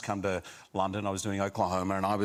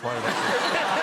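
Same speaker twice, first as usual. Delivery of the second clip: higher and louder, the nervous muttering breaks into a laugh; laughing mock muttering; 10 semitones higher, 6 dB louder than usual. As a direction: imitate her panicked self-talk dissolving into laughter. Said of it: "you were muttering and muttering".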